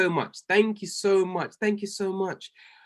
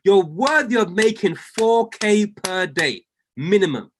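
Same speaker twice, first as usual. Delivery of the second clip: prophetic declaration; 3 dB louder, slower than usual. Real, not acted. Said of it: "I'm now going to speak over your life".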